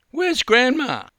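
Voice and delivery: put-on high, loud worried child; small boy calling for gran; anxious little boy. Frightened boy in pool.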